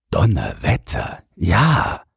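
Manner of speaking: mildly amazed man, rising on the last word. A narrator's reading. Man impressed by the boy's guess, amazed. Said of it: "sagte der Mann verwundert".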